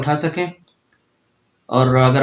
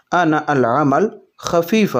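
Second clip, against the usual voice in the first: slow "انا العمل خفیفہ"; slow Arabic demo; slower than usual. Shown as a demonstration. Teacher modelling the Arabic sentence slowly for viewers. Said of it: "عربی میں اس طرح سے بولیں گے".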